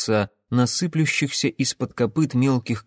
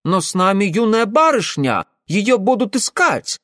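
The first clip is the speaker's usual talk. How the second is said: put-on worried young man; 9 semitones higher, 4 dB louder than usual. Ingvar protesting.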